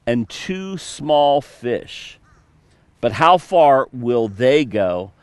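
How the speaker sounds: measured, even Bible reading; scripture reading. Acted. Pastor reading the feeding story to the church, steady and measured. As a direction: read the passage steadily to the congregation. Reads scripture passage aloud.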